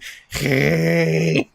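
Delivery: demonstrated creature breathing; breathing noise. Shown as a demonstration. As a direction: imitate audible, drawn-out breathing. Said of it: "breathing is".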